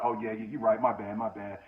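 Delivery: low, soft backing down; meek apology. Retold or imitated. Cellmate apologizing to the OG, meek and quiet. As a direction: cop pleas quietly.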